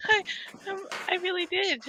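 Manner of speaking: laughing through the words, slow. Real, not acted. Recalling dad hanging up on her, laughing. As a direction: giggle it out in disbelief.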